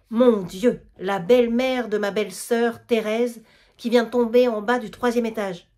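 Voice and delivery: loud, startled burst of alarm; alarmed neighbour crying out. Acted. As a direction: gasp it out as the crash is heard. Alarm at a crash outside.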